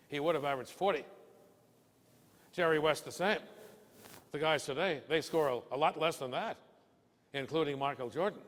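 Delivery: lightly voiced Bill setting the record straight; mildly emphatic old pro; lightly voiced Bill lecturing.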